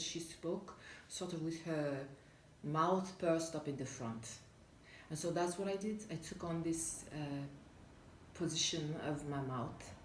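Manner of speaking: French accent with pursed lips. Shown as a demonstration. Actor showing how she copied a classmate's mouth placement, French accent. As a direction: lightly take on a French accent, lips forward. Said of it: "put her mouth up forward like this".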